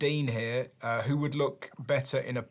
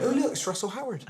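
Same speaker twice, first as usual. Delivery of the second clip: woman's voice; 9 semitones higher, faster than usual. Retold or imitated. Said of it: "she went".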